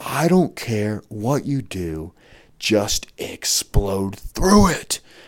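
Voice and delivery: mock very slow, drawn-out bellowed yell. Recalling asking for help with a wrestling move, retelling someone yelling. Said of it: "yelling at me like".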